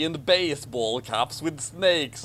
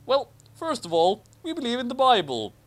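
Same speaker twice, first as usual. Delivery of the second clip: ecstatic; 8 semitones higher than usual. Acted. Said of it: "Ronald replied ecstatically".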